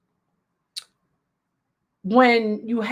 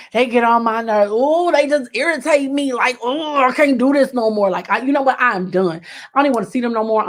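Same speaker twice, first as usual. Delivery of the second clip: exasperated friend. Retold or imitated. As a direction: play the drama friend who is done with them. Friend venting on the phone.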